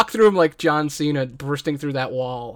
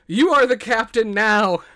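bandits shouting in awe, pitched up and louder; excited shout; 6 semitones higher, 4 dB louder than usual. Acted. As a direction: proclaim it with awe. Bandits declare new captain.

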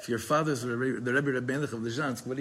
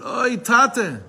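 high, loud groaning "Oy, tate"; a heartfelt groan to his father; groaning cry; 10 semitones higher, 9 dB louder than usual. Retold or imitated. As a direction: let out a pained krechts on "Oy, tate". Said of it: "a krechts".

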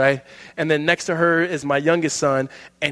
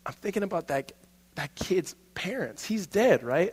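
put-on upset child; 3 semitones higher, 8 dB quieter than usual. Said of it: "And he goes".

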